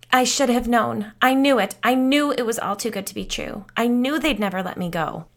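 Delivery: rising to a loud, high panic; panicked. Acted. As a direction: blurt it out in rising terror. Terrified woman rocking, panicking.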